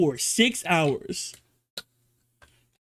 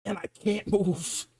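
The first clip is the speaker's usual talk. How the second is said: strained neighbour; 3 semitones lower, 9 dB quieter than usual. Retold or imitated. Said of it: "He goes".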